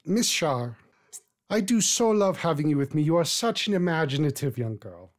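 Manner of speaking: lightly voiced old woman, genteel; a hint of a gracious old matron; elderly lady. Old woman gently chiding her young friend.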